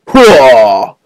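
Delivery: long, loud hoo-ah; loud effort yell. Real, not acted. Gamer hurling a sword, loud effort yell. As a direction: heave out a battle cry.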